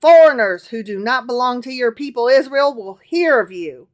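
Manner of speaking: put-on lightly done Southern accent as Solomon. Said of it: "Solomon continued in his southern accent".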